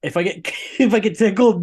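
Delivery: laughing. Real, not acted. Laughing about tickling.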